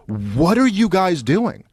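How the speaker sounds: exasperated Kennan quote. Retold or imitated. Retelling Kennan scolding Washington over nato, mock exasperated. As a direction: voice Kennan's disbelief, mildly hammed. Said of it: "'Cause he's like".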